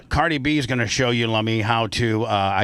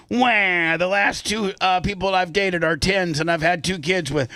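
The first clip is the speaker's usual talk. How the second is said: mock crybaby; 5 semitones higher than usual. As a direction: fake wailing, whiny. Mock crying plaintiff.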